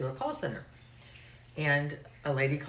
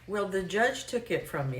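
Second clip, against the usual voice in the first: imitated Arkansas caller, higher; heavy Arkansas accent; 4 semitones higher than usual. Caller explaining her suspension to the agent, Arkansas accent. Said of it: "just really heavy accent for me".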